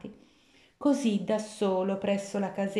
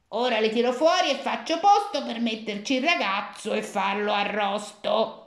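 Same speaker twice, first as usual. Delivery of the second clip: greedy witch; 3 dB louder than usual. Acted. Witch speaking at the oven.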